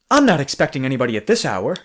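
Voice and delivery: a stiff, overly calm line read with a laugh; stiff mock dialogue. Mocking a stiff podcast actor to a friend, stiff wooden read. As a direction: ham up a wooden radio-drama actor, laughing. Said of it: "the dialogue can seem very stiff".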